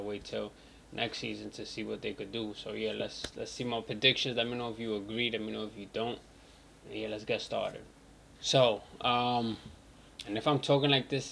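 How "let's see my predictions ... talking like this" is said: talking around a bitten tongue; speaking carefully with a sore tongue; just bit tongue. Real, not acted. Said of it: "it's 'cause I bit my tongue".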